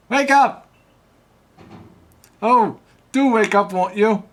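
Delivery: high, loud proper gentleman; fussy gentleman voice. Acted. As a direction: wake someone up, politely fussy. Professor character wakes her.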